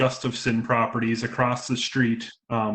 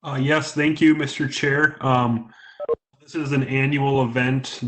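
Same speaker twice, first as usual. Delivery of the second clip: breaking-up call line; choppy phone connection audio; buzzy glitchy call audio; 4 dB louder than usual. Real, not acted. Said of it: "You're breaking up a bit on my end".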